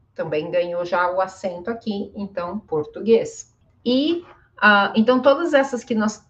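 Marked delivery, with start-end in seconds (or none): 2.6-3.6 "português" stressed on a closed E. Shown as a demonstration. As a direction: say "português" with E, never I, in the last syllable. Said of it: "tem o som de E mesmo".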